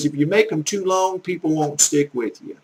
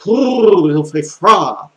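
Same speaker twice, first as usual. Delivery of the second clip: loud "ouh" before slow French; imitating French teacher; 2 semitones higher, 6 dB louder, slower than usual. Man mimicking a video's little lady teacher, role imitation. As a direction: imitate a lady shivering out her French lesson. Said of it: "Like the little lady ... and she'll go".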